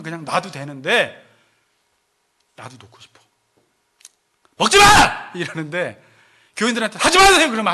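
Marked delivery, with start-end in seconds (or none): 4.6-5.3 loud, high acted outburst; sudden mock scolding shout; exasperated shout. Acted fed-up parent forbidding food. 7.0-7.5 loud, high acted order; sudden acted outburst; fed-up shout.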